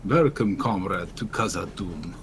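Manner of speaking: lightly put-on Russian accent; a hint of a Russian accent, reading dwarf quest text. Shown as a demonstration. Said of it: "Russian accent".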